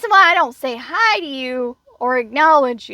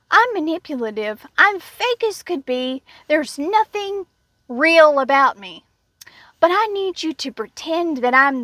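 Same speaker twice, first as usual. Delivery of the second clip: mocking the fake coworker; 3 semitones higher than usual. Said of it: "It's like".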